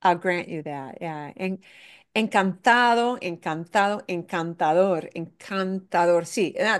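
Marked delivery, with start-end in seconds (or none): 2.2-4.0 encantado with the beat on "ta"; encantado, "ta" carrying the stress. Shown as a demonstration. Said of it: "kind of maybe a secondary stress". 4.1-6.2 encantador, main beat on "dor", lighter one on "can"; stress on DOR. Shown as a demonstration. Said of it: "kind of maybe a secondary stress".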